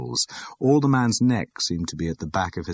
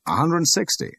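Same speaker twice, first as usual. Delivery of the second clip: much higher female bidder; high woman's voice; 11 semitones higher than usual. A narrator's reading. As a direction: call a bid in a woman's voice. Woman bidding at auction.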